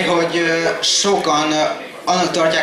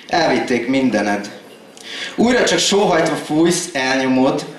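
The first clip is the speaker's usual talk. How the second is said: rhythmic poem delivery, higher than casual talk; slam poetry recital; 3 semitones higher than usual. Acted. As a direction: recite in measured phrases, dropping at stanza ends. Performs a slam poem on stage.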